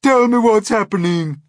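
a high, loud fearful wail. Acted. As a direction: cry out in terror. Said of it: "wailed the earthworm".

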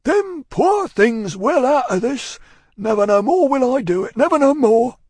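loud, high, weighty Cockney voice; solemn vow. A narrator's reading. Cruncher vowing to Miss Pross to reform, solemn. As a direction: swear it earnestly and forcefully. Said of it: "spoke with an ashy and solemn visage".

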